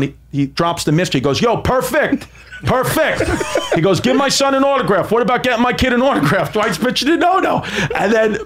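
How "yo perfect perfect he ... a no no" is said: higher, mild mock yell at a wrestler; dad calling out in a lightly hammed yell; retold yelling. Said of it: "he just starts yelling".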